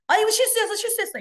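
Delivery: high, quick, breezy excuse; dismissive excuse. Shown as a demonstration. Showing the wrong apology, quick and dismissive. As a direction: rattle off an excuse lightly. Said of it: "이거 말고".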